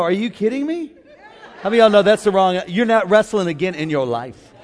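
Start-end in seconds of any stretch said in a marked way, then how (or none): 0.0-0.9 mock exasperated. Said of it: "I didn't go".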